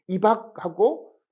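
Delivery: 입학하고 said slowly as ibakhago, no tensed g; 입학하고, lenis Jeolla style; Jeolla plain-consonant pronunciation. Shown as a demonstration. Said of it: "이 평음으로 이렇게 발음하게 되죠".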